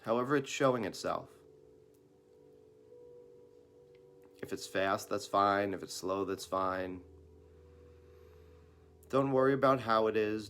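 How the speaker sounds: unhurried meditation guidance with long pauses; guided meditation. Real, not acted. Teacher leading listeners into breathing practice, calm guided meditation. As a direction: gently guide them through it, leaving room to breathe.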